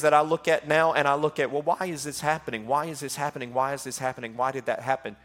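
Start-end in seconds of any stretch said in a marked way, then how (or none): 1.5-4.4 inner questioning. Retold or imitated. Voicing inner doubting question. 4.4-5.2 inner questioning. Retold or imitated. Voicing inner doubting question.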